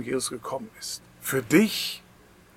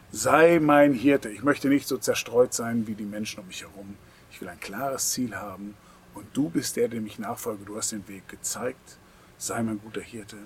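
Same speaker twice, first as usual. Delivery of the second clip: sample prayer. Shown as a demonstration. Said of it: "das ihn bittet und fragt".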